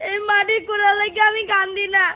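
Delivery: crying pupil's monotone lament; tearful wailing. Acted. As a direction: whine it out on one sustained tone. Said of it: "হ্যাঁ, হ্যাঁ, কানতে হয়".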